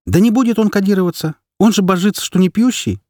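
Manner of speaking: mother flaring up on the phone about her husband; emotional outburst. Acted. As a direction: burst out indignantly. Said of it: "эмоциональный возглас".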